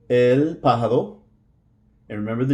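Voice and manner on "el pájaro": "pájaro" with the R tapped like a soft D. Shown as a demonstration. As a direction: tap the R in "pájaro" softly, stress on the first syllable. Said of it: "the R is going to sound like a soft D".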